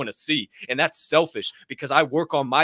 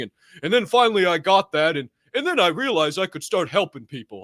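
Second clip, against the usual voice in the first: mock podcaster. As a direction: send up a rich influencer bragging. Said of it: "a pretty famous podcaster ... who was talking about".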